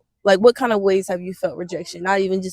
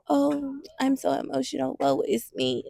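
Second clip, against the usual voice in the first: a higher, softer sing-song moan; mocking whine; 5 semitones higher, 5 dB quieter, slower than usual. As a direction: parody the weepy stereotype. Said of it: "Cancers are not just".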